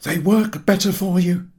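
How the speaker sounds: a bluff sailor voice sharing his motto; cheerful skipper. A narrator's reading. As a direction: state it with fatherly confidence. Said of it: "said Mister Goyles".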